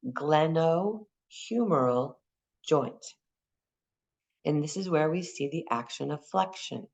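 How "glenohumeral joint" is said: glenohumeral drawn out slowly with a rising end; slow emphasis. Shown as a demonstration. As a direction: lay the term down slowly for the class. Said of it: "goes into humeral".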